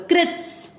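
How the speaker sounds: कृत्स ending in a soft hissed स; add half स. Shown as a demonstration. Teacher showing how to end on half स. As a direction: whisper the final स onto कृत. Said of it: "कृत के साथ आधे स को बोलो".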